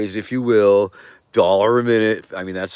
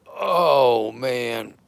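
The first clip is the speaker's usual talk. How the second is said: effortful groan; 4 semitones higher than usual. Pretend. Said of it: "old man noises for you".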